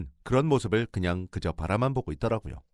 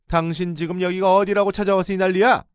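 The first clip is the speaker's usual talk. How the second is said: furious in-law's shout, much higher and louder; angry yell; 10 semitones higher, 8 dB louder than usual. Retold or imitated. In-law yells at the narrator for barging in. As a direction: bark at the intruder. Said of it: "소리를 질러댔어요".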